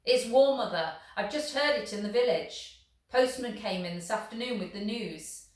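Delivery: a lightly voiced father calling out; excited calling out. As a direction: burst in with big news. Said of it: "He was calling out as he came".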